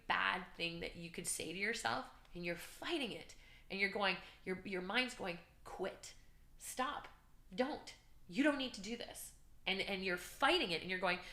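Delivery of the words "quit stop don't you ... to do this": higher-pitched voice of self-doubt; lightly voiced doubting mind; nagging inner voice. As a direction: urge it in separate short pleas, pitched up. Voicing doubting mind mid-race.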